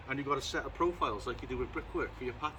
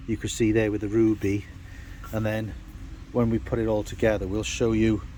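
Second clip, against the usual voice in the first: raised voice over rain; 2 semitones lower, 8 dB louder than usual. Real, not acted. Talking over pouring rain.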